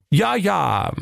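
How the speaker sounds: high, falling sigh of sympathy; understanding sigh. A narrator's reading. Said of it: "seufzte der Axel Milchbart verständnisvoll".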